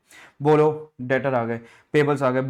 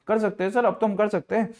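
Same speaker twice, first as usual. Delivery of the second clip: eager student voice; 7 semitones higher than usual. Acted. Teacher plays a thrilled student, high and eager. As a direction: play the keen pupil who already knows it.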